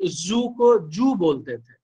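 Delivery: जू with a hard j, slowed; जू spoken with j not z. Shown as a demonstration. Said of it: "मेरे यहाँ ज नहीं बोलते थे".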